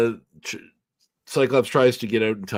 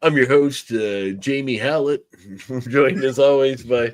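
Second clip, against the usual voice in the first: radio DJ voice; 2 semitones higher, slower than usual. Pretend. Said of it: "morning D J".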